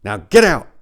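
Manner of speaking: loud, angry telling off; angry retort. Acted. Narrator ordering the bird out before slamming the door, angry. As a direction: snap back at the bird. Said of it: "I slammed the bathroom door".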